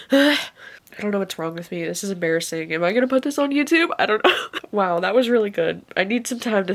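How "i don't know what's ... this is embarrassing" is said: crying quietly. Real, not acted. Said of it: "bawling my eyes out".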